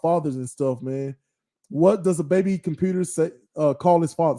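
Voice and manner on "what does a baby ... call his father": stumbling through the joke, words out of order; garbled first try at the riddle; fumbled joke setup. Real, not acted. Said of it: "Sorry, I messed it up".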